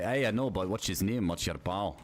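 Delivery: imitating a really Scottish dude; mock Scottish back-and-forth; lightly put-on Scottish questioning; Scottish accent. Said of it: "this really Scottish dude".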